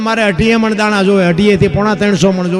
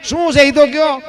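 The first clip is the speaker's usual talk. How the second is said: higher, puzzled guest's voice; 6 semitones higher, 3 dB louder than usual. Acted. Guest asks the crying wife why, puzzled. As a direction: ask her what's wrong, baffled.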